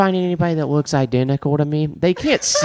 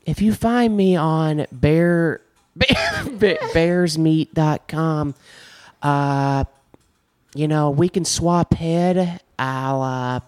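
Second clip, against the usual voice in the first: Ken Kratz impression. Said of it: "here's my Ken Kratz impression".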